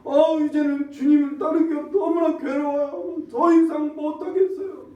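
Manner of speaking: high, loud, anguished cry; retold shouting. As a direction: shout it as the worn-out disciple. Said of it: "소리소리를 질러가면". (괴로워 울부짖듯 소리치는 제자)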